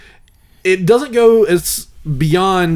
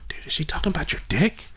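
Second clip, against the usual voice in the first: whispered inner voice; hushed, conspiratorial aside to himself; voice in head; 2 semitones higher, 9 dB quieter than usual. Acted. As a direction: whisper it like a secret thought. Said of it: "the first voice in my head goes".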